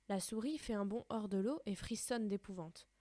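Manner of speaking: put-on reading a children's story aloud. A narrator's reading. Teacher reading the story to her pupils, steady and clear. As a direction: read the tale to the class, clearly and gently.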